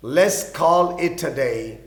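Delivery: very slow, clear teacher's read; slow example line; very slow repeat. Shown as a demonstration. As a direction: repeat it slowly at full voice.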